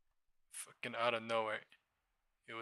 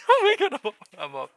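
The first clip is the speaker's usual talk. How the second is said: shrieking laugh into oh my god, much higher and louder; laughing joy; 17 dB louder, faster than usual. Real, not acted. Trader laughing as his position turns green. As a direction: burst out laughing with relief. Gleeful trader sees profit.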